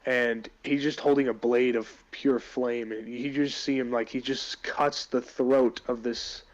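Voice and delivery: DM setting the scene; game master narration. Acted. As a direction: narrate the fight vividly. DM narrates boss fight scene.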